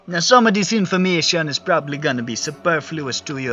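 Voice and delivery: put-on lively Jamaican-accented old librarian. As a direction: give it a Jamaican lilt. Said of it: "I really just wanted to do a Jamaican accent".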